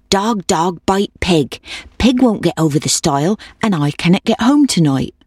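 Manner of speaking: lightly voiced old woman giving orders; urging old woman. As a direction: chant the folk-tale refrain as a mild plea.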